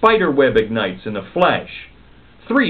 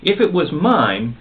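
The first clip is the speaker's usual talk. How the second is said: snapping; 5 semitones higher than usual. Acted. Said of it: "snapped Pearl".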